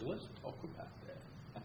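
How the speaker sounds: slow whispered suggestion. Retold or imitated. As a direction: lean in and whisper it. Buddy's quiet reply to movie.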